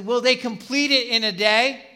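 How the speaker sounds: lightly sarcastic taunt; mocking. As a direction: ask it as an acted-out jeer. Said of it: "using that to kinda mock".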